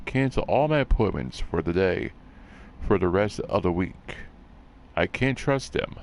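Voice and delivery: flat, even robot voice. Acted. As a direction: read it like a robot. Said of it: "I don't know why I read it in a robot voice".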